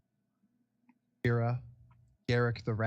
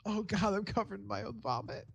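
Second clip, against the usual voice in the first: put-on drunken self-pity; 8 semitones higher, 4 dB quieter than usual. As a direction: lament it like a sick, sorry drunk. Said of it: "it's like".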